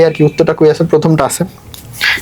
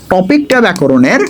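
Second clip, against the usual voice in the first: slow, deliberate stress on টপিকটা; slow emphasis; slower than usual. Shown as a demonstration. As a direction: drag out টপিকটা ব্যাকরণের so each word lands. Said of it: "কিন্তু আমি বলি মুখস্থ টপিক".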